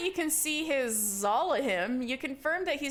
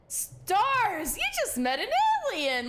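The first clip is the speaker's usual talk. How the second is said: higher and louder, thrilled; excited exclamation; 9 semitones higher, 3 dB louder than usual. Real, not acted. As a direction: cry out with real delight. Thrilled at meeting an alien.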